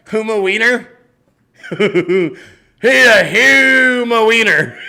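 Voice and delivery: cracking up and stretching each word out; drawn-out laughing delivery of a silly name. Real, not acted.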